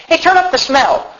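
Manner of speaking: high-pitched call across the room; acted call-out. Viewer asking for the TV smell turned up, acted call-out.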